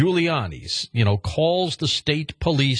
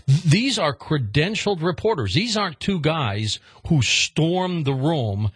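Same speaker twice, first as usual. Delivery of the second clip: CREDENTIALED REPORTERS stressed, pitch raised; emphatic stress; 3 semitones higher than usual. Real, not acted. Host stresses to listeners that they are legitimate press, emphatic. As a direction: lean firmly on "credentialed reporters" to make the point. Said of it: "and I stress this".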